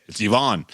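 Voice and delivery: Yvonne as ee-VAHN, stressed at the end; Yvonne with EE start and open AH; showing correct pronunciation. Shown as a demonstration. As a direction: demonstrate Yvonne as ee-VAHN, falling. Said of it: "That's how you say it".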